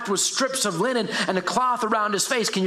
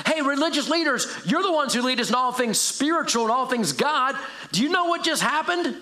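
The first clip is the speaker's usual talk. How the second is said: excited townsperson; 5 semitones higher than usual. Pretend. Townspeople rushing to leaders.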